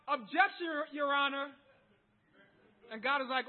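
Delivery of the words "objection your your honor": mock objection shout. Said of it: "We can scream out".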